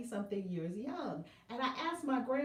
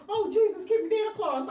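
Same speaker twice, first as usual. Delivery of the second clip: a light, louder mock of an old church lady; imitating mother-in-law; 10 semitones higher, 9 dB louder than usual. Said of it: "That's what my mother-in-law says".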